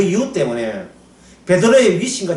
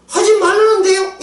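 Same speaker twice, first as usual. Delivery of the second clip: whiny excuse; 11 semitones higher than usual. Retold or imitated. People quoting the ban back.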